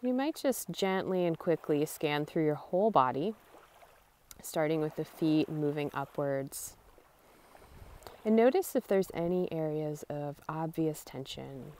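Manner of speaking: calm, softened guiding voice with long pauses; guided meditation. Real, not acted. Guide leading listeners through a body scan at the beach, calm meditation voice. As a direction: ease them through a body scan, unhurried.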